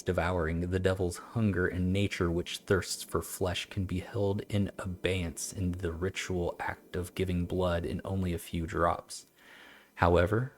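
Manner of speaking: measured, formal recital; old text reading. Acted. Streamer reads about a devil's hunger, measured recital. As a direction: read it evenly as an old treatise.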